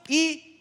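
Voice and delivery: "identidade" broken into separate, evenly stressed syllables. Real, not acted. Preacher driving home identity in God, "identidade" split syllable by syllable. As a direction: hammer out "identidade" one syllable at a time with pauses between. Spells out key word by syllables.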